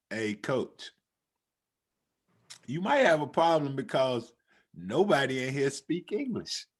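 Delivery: low, quiet aside from the back; low-key aside. Retold or imitated. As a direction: drop it low and understated, imitating a kid. Kid in back retold.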